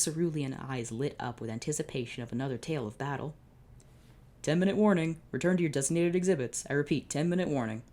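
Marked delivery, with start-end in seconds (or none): 4.4-7.8 loud announcer voice; PA announcement. Acted. Museum guard announcing closing over the loudspeaker. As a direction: call it over the speakers.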